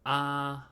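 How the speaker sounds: Chinese particle ah, clear and slightly high; 示范语气词啊; demo word ah. Shown as a demonstration. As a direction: say ah as a neat sample. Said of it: "the basic Chinese word ah".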